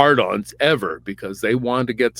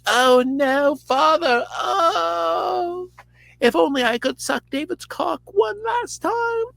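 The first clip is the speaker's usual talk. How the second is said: very high, hammed-up dying wail; Jonathan; slower than usual. Dying son crying to his father, mock high wail. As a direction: wail it out like a melodramatic death scene.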